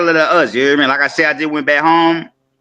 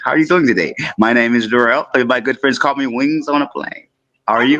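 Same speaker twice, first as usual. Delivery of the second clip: polite customer service voice; professional voice; 4 semitones lower than usual. Shown as a demonstration. Caller gets his polite professional phone voice. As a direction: sound like a courteous consultant on the phone. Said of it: "my professional voice and my consultation voice".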